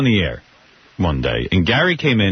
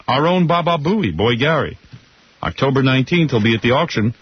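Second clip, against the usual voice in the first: upbeat live radio ad read. Acted. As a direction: sell it like a DJ ad. Live read of car auction ad.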